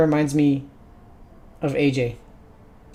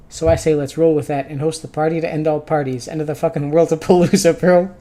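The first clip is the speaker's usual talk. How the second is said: party-bro hype, rising at the end; hyped party pitch; 4 dB louder than usual. Acted. Visitor urges hosting the ultimate party, excited build.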